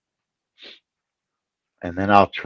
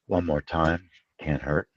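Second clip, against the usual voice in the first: unvoiced whisper to himself; whispered aside; 2 semitones lower, 9 dB quieter than usual. Real, not acted. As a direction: whisper it, under the breath. Muttered aside.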